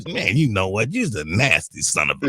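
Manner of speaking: imitating an exasperated old man; fed-up insult. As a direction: spit the insult out in a low growl. Replaying the insult.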